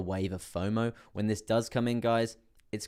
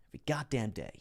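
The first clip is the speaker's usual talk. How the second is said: whispered; 3 semitones higher than usual. Real, not acted. Weary joke about daily streams.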